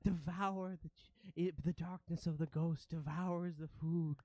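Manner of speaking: lightly voiced awestruck rat creature; a touch of dread, proclaiming doom; ratling. Ratling watching the ghosts devour food, mildly awed creature voice. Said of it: "you hear the rattling say".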